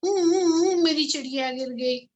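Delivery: broken sobbing hoo sounds between the words; a little bird sobbing over his lost mate; sobbing sparrow. Acted. Sobs to the cat over his fallen mate, sobbing. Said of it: "वो रो रो कर कह रहा था".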